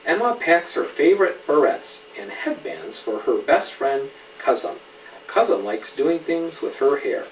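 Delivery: clear, lively storybook reading; gentle picture-book narration; reading to a child. A narrator's reading. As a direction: read it to a little one, naming each friend. Reads picture book aloud.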